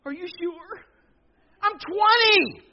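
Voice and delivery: hammed-up frightened grown kid; scared squeak. Twenty-year-old son pleads with mom, high and scared. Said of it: "And I said".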